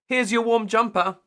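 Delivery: high, loud call after him; mock calling out after him. A narrator's reading. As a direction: call out to someone leaving. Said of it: "called after him".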